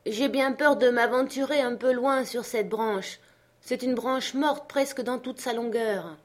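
high, wary character voice; anxious servant up a tree. Acted. Jupiter warns his master about the dead branch, anxious. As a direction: raise the pitch, worried about the branch.

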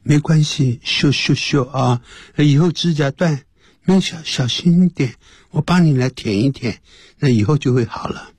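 mock-tender comforting, pitched slightly up; acted reassurance; consoling. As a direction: soothe a girlfriend over a trifle. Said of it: "我就安慰说".

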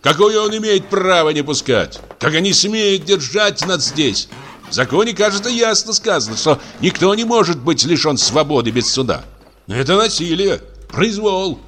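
high, heated voice of outrage; indignant protest. A narrator's reading. Patient protesting the locked door, indignant. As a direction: rail against the injustice.

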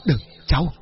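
trembling urgent warning; shaky, fearful voice. Acted. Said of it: "run giọng".

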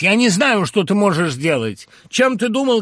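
very high, loud hysterical shout; mother flaring up. Acted. Mother blaming her son on the phone, high furious shout. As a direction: explode at him in fury. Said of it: "воспламенилась".

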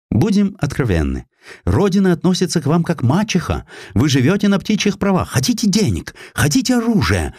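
заметно выше, вкрадчиво соблазняет; искуситель-иностранец, мягко; вкрадчивый британский атташе. A narrator's reading. Британский атташе вербует атамана. (атташе вербует атамана, вкрадчиво)

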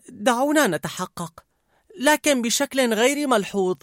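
high character voice plotting; scheming emotion. A narrator's reading. An emotion proposing they check, scheming.

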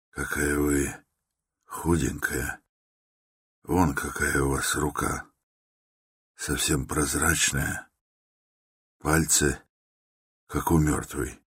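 put-on quiet compassion for a frail girl; pitying quiet. A narrator's reading. Pitying Sonya's thin hands.

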